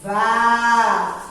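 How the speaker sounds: stretched "Vá" as the strong syllable; stressed syllable held. Shown as a demonstration. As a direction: hold "Vá" on its own. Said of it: "Qual é a sílaba forte".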